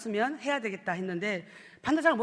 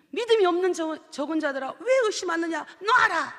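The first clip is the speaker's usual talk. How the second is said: rebuke; 4 semitones higher, 4 dB louder than usual. Retold or imitated. God rebukes man.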